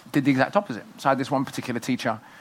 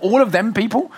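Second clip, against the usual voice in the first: surprised; 8 semitones higher, 5 dB louder than usual. Retold or imitated. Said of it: "you'll be like".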